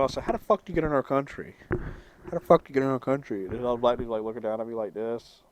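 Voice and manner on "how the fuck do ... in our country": fast, pushy mock interrogation; mock tough jail challenge. Teller acting tough at the Vietnamese guy in jail, mock threatening. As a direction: act the hard guy demanding answers. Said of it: "I act like I came up with him".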